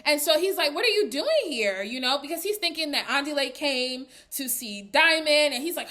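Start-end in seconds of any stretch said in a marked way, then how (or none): 0.8-1.8 imitated pleased surprise, slightly raised; excited greeting. Diamond seeing his bro at the house, imitated excitement. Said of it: "Diamond was genuinely excited to see Andile".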